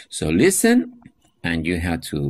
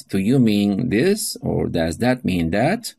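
model question; slower than usual. Shown as a demonstration. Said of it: "you can ask this".

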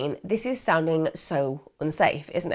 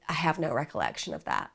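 a lightly voiced bad American accent, lower and softer; terrible American accent; 7 semitones lower, 8 dB quieter than usual. Erickson quoted to the lawyer, in a bad American accent. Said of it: "doing a terrible American accent".

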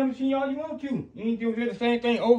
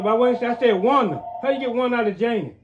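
angry shouting; 7 dB louder than usual. Real, not acted. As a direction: shout back in anger. Heated family quarrel.

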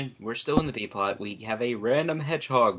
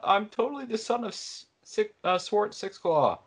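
put-on whiny teen voice; 10 semitones higher than usual. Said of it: "that whiny teen voice".

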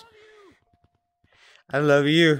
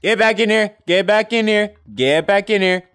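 playful yelling; 4 semitones higher than usual. Real, not acted. Achtervolgt een valsspeler in tag.

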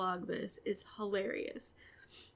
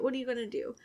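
ordinary talk, nothing marked

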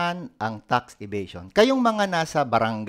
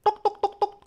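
high squeaky knock knock; knocking noise. Retold or imitated. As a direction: tap out a high tuk tuk sound. Imitated knocking sound.

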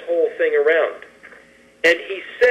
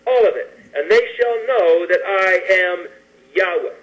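scripture reading. Acted. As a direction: read it out deliberately, phrase by phrase. Reads scripture aloud.

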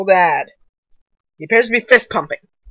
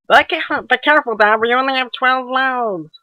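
put-on higher kid voice, anxious; high-pitched voice; 5 semitones higher than usual. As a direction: pipe up high like a worried kid. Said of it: "your voice getting more high pitched".

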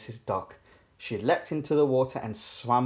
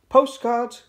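high, loud vendor's call; 11 semitones higher, 8 dB louder than usual. A narrator's reading. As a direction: sing out the wares. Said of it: "called Miss Rabbit from inside".

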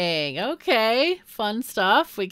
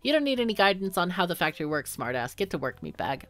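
gruff boss voice; 3 dB louder than usual. Acted. Reads gruff boss character.

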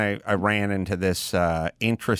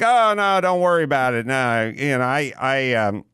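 imitating the guy; 2 semitones higher than usual. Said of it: "the guy's like".

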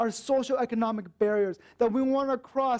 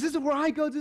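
imitating the eager TA, pitched higher; eager, pitched-up questions to a new friend; excited questions; 6 semitones higher, much faster than usual. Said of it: "And he got so excited".

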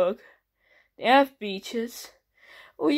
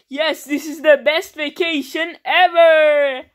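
excited; 4 semitones higher, 5 dB louder than usual. Acted. Excited vacation party cheer.

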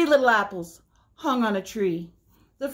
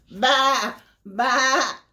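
sheep bleat; 3 semitones higher, 3 dB louder than usual. Acted. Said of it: "said the sheep".

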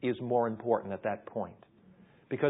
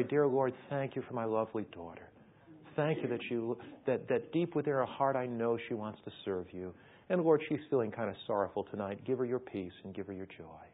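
positive prayer; 3 semitones lower, 4 dB quieter than usual. Acted. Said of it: "You pray".

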